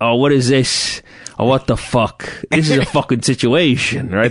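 New Jersey mobster-style accent and inflection. A Montclair High alum on local Italians' speech, doing the Tony Soprano inflection. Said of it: "that Tony Soprano inflection".

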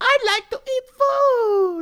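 very high, very slow, sweet little voice. Suggesting a friendlier line the Furby could say: little cute voice. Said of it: "in a little cute voice".

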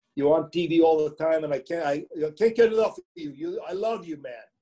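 put-on New York accent laid on thick. Speaker retells a fan approaching him in a buffet line: thick New York accent. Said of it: "he had his thick New York accent".

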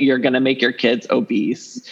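ordinary delivery

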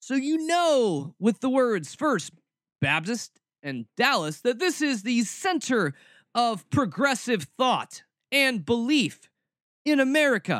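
thick, heavy sarcasm. Speaker introduces a Southern Baptist pastor to listeners, completely sarcastic. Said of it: "I'm being completely sarcastic with what I'm saying".

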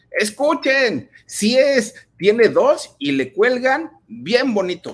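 put-on very high-pitched shout with tremendous force. Retelling a man shouting so everyone would hear, acting out a forceful shout. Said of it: "Y gritaba".

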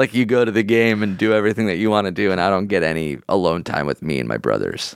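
ordinary talk

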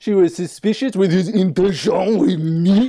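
slow, high, put-on French accent. Quoting an actress's line from a film: imitating a french accent. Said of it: "the most French thing I've ever heard".

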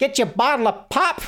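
put-on very high, cheery, chipper, chirpy old-timey 1950s voice. Joking with friends about saying bottle of pop, in a chipper 1950s voice. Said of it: "trying to imagine like a chipper little 1950s".

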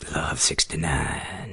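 bad radio DJ voice, low and soft. Reacting to the fan name Chumbucket69, bad DJ voice. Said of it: "DJ voice".

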